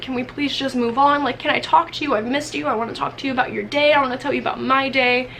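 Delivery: imitating her anxious begging; pleading. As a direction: beg him to keep talking. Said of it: "I was like".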